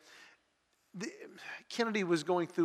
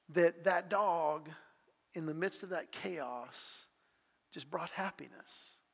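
tender; 4 dB quieter, slower than usual. Real, not acted. Tender moment, pug brought happiness.

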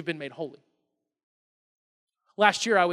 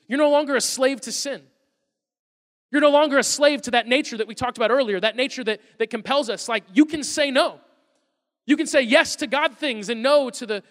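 raised, louder preaching voice; emphatic preaching; 4 semitones higher, 6 dB louder than usual. Acted. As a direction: drive it home to the congregation.

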